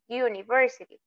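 "University" begun with you, not oo; y-sound U. Shown as a demonstration. Teacher repeating the model word, "University" starting like you. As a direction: lead into "University" with a y glide. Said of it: "no tiene el sonido de la U".

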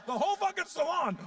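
ordinary talk, nothing marked

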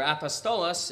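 Greek word with a Spanish accent. Real, not acted. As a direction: slip into a light Spanish accent. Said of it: "said that in a Spanish accent".

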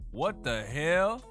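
normal talking voice

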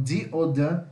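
first "the" as dee, second "the" as duh; two pronunciations. Shown as a demonstration. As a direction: say "the" both ways with a D sound, dee or duh. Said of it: "você pode falar como".

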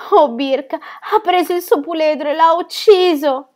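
high, loud, slow wailing; desperate crying. Acted. Ronia crying to Birk about the dead foal, wailing. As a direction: wail out the loss. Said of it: "Piangeva di disperazione".

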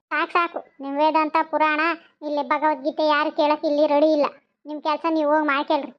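testy brush-off; irritated scolding. Acted. Woman dismissing neighbours' sermon, mildly irritated scolding. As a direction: shut down the moralising with mild temper. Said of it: "ಯಾಕೆ ಚಂದ್ರಿ ಹಿಂಗೆ ಬಂದವ್ರ ಮೇಲೆಲ್ಲ ನಾ ರೇಗಾಡ್ತೀಯ?".

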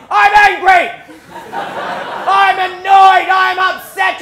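high, full-volume yelling of feelings; hammed-up furious dad scream. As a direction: bellow it across a farm. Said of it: "we'd just hear him scream".

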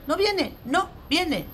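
high, slow "no viene", twice; emphatic refusal. Acted. Parent threatening no Olentzero, emphatic refusal. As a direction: draw out "no viene" high, word by word.

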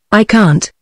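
mild mock howl; a hint of a howl of protest. A narrator's reading. Old man howls his refusal to Steve, mildly. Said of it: "He howled".

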